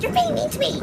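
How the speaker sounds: mock high-pitched child whine; whining little girl. Little girl complains at being scolded, whining. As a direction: imitate a wounded bratty kid.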